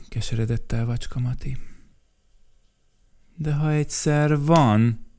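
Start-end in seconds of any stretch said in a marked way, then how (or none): 3.4-5.1 cross. Acted. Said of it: "mérgelődött Mikka Makka".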